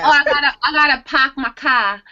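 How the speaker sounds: put-on Boston accent. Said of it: "Sorry for all you Bostonians".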